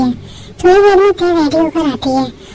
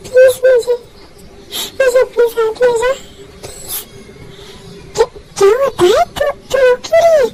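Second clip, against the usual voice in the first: tearful phone call; 2 semitones higher than usual. Acted. Crying to friend on phone.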